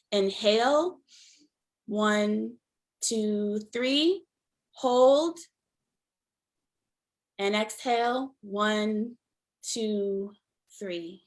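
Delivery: measured count with long pauses; guided breathing count. Acted. Host leads guests through a collective breath, guided breathing count. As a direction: count the breath out slowly, word by word.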